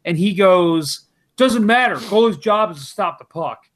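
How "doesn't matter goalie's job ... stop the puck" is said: brushing him off, a bit louder and higher; dismissive retort. Retold or imitated. Heckler brushing off the speaker, curt loud retort. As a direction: snap back without caring.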